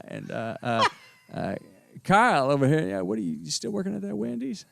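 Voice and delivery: a proud, folksy Jiffy Lube manager bragging about his famous cousin; McConaughey brother. Pretend. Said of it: "the dueling McConaughey brothers".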